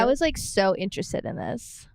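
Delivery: light valley girl imitation. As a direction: draw out the like, teasing. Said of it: "I have a Valley Girl accent?".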